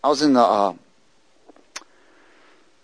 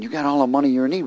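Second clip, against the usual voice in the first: quick aside with a questioning rise; retold doubtful thought; 3 semitones higher, faster than usual. Preacher privately doubting the stranger's offer, doubtful thought. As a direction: echo it to yourself as a question. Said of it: "I'm thinking".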